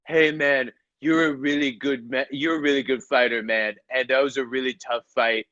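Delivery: a hint of Trump praising the fighter; Trump impression. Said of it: "Donald Trump calls this guy and is like".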